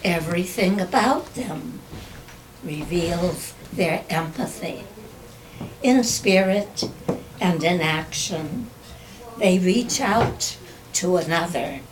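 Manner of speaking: measured poetry reading with long pauses; poem recitation. Acted. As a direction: recite your own verse, pausing after each phrase. Reads own poem aloud.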